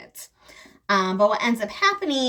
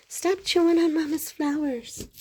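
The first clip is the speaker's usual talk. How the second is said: playful scolding; 7 semitones higher than usual. Real, not acted. Scolding pet again.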